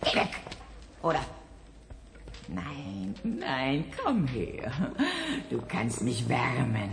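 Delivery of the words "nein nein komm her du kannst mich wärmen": tender. Acted. Manja cuddles the kitten.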